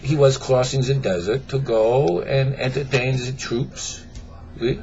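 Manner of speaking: put-on French accent. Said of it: "start over with an accent".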